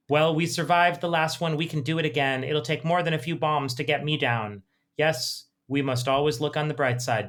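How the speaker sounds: put-on mild, cosy old-couple voices; reading an elderly British couple's dialogue. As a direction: read it like two gentle old Brits at home. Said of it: "I'm just gonna read a little bit of the dialogue".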